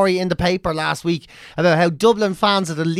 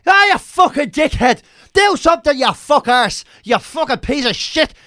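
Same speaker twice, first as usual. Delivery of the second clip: higher, louder mock fan abuse at the pitch; hammed-up heckle at a player; imitating angry fan; 9 semitones higher, 3 dB louder than usual. Fan roaring at his own players, higher and louder mock abuse. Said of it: "You see the whole".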